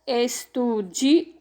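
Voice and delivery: Estudiou drawn out slowly, syllable by syllable; slow syllable demo. Shown as a demonstration. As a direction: break Estudiou into slow beats for kids. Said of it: "Vocês observem aí, ó".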